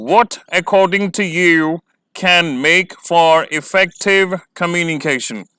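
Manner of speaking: very slow, measured read-out of the question; slow dictation pace. Shown as a demonstration. Reading question aloud.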